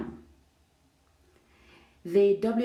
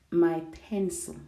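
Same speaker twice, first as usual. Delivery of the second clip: "my pencil" set apart, weight on "my"; pause, then lean on "my" in "my pencil"; single out "my pencil" for emphasis; stress on my pencil. Shown as a demonstration. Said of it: "placing the focus or the emphasis".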